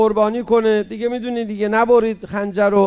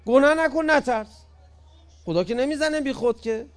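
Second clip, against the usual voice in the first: higher, softer, kindly "گناه نکن"; gentle teaching; 7 semitones higher, 5 dB quieter than usual. Retold or imitated. Imam Ali kindly reassuring the frightened man, soft and gentle. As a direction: coax him out of his fear gently.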